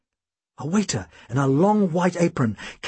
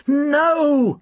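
high sharp yell; 10 semitones higher than usual. A narrator's reading. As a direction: stop him with a shout. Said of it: "I yelled".

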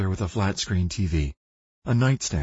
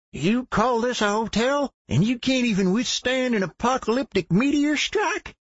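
put-on redneck old man voice. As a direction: play a crazy redneck survivalist geezer. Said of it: "his best redneck survivalist crazy-ass old man voice".

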